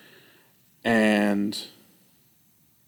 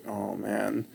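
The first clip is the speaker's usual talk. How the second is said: dread; 2 semitones lower, 11 dB quieter than usual. Retold or imitated. Dreading the test ahead.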